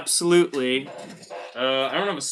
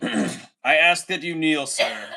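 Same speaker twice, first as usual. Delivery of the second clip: slow, solemn royal tone, lightly done; mock knighting; slower than usual. Streamer mock-knighting a viewer, lightly solemn. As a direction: play the queen knighting a subject. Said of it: "I have to knight him".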